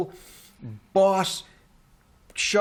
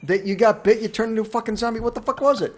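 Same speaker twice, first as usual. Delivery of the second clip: higher, louder incredulous challenge; exasperated; 6 semitones higher, 4 dB louder, faster than usual. Real, not acted. Film host challenging co-host over virus, exasperated. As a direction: demand an answer, worked up.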